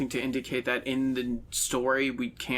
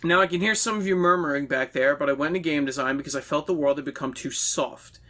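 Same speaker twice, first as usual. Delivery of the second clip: ranting game designer. Acted. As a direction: preach it like a smug nineties developer. Reads a game designer's ranting monologue.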